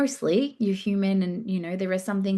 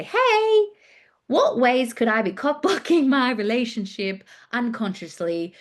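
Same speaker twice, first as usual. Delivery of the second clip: high, bright sing-song opener; playful pretend prompt, loud start; mock chatbot query; 5 semitones higher, 3 dB louder than usual. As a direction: pitch way up like asking a bot. Typing question to Chat GPT.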